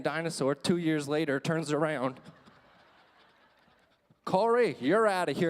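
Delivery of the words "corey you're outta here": loud stern order; stern teacher. Retold or imitated. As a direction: throw him out of class firmly. Teacher kicking him out.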